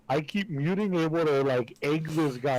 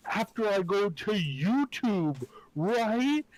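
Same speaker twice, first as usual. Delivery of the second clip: slow, higher-pitched mock-clueless voice; playing dumb; 5 semitones higher, slower than usual. Troll stringing the helper along, playing dumb. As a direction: draw it out like a lightly voiced dimwit.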